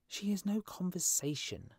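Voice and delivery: high-pitched little bird character; complaining swallow. A narrator's reading. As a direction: grumble as a small lovelorn swallow. Swallow complains of his love.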